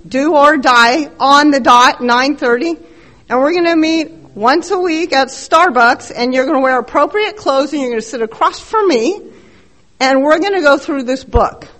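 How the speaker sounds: lightly voiced bossy older man, rattling off orders; mild imitation of a loud old-timer sponsor. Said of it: "He's older and kind of loud".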